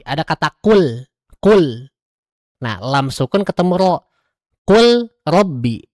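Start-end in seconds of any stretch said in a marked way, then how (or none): 4.7-5.9 slow, "Kul robbi" with the l melting into r; recited example. Shown as a demonstration. Teacher recites the example slowly for the class. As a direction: draw it out evenly. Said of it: "harusnya kul robbi".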